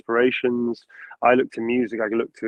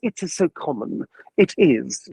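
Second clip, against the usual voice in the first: Astarion voice; 3 semitones higher than usual. Shown as a demonstration. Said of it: "always for Astarion".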